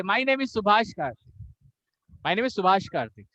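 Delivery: keen start, then "Karthik" drops in pitch; name trailing off. Shown as a demonstration. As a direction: rush through "Subhash Karthik", letting the end fall. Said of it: "the pitch goes down".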